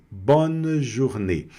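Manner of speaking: very slow "bonne journée", one closed "ê"; simple closed ending. Shown as a demonstration. Teacher models it simply for students, closed e in "journée". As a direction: spell out "bonne journée" slowly, closing the last vowel. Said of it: "Simples assim".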